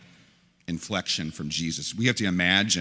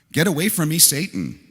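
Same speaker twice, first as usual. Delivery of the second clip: stern rebuke; 8 semitones higher, 4 dB louder than usual. Retold or imitated. Jesus rebukes Peter, quoted.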